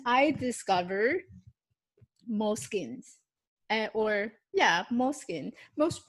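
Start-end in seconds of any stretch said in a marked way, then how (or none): 4.9-5.5 Moleskine said as "MOS-kin", the l dropped; own pronunciation. Shown as a demonstration. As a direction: say Moleskine like "moskin", two syllables. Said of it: "I pronounce it as Moleskine".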